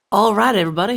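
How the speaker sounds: loud, high announcer shout; big projected host voice; rallying call. Real, not acted. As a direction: call the whole crowd to attention. Calls viewers back after a cut.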